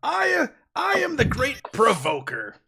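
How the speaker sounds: squeaky, very high, jeering little orc shout. Voicing a little orc shouting insults at the party: little orc shouting insults. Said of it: "this little orc is just up there shouting insults".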